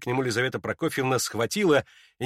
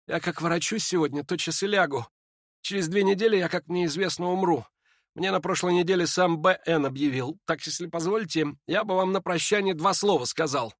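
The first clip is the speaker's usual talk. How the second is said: put-on faint dying young man; 5 semitones higher than usual. Ippolit tells Lizaveta of his death, faint and weary. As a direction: speak like a sick man short of strength.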